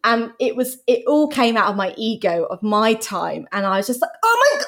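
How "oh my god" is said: high-pitched exasperated cry; mock losing it, voice leaping up; retold outburst. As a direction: blurt it out high, losing patience. Acted outburst at the child.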